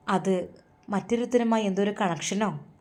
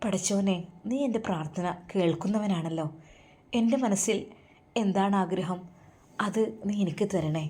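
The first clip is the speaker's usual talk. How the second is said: hushed prayer; 6 dB quieter than usual. Acted. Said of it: "പടച്ചവനെ സ്തുതിച്ചു".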